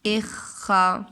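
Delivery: "अखा" stretched very slowly with a held ख; very drawn-out demo. Shown as a demonstration. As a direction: hold the ख long. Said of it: "next word क्या है". ("अखा" को बहुत धीरे, ख दबाकर)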